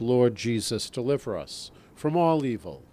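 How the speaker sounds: measured litany, each phrase falling at the end; formal recited prayer with a repeated falling cadence. Real, not acted. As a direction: lead the litany steadily, pausing after each invocation. Leads litany petitions.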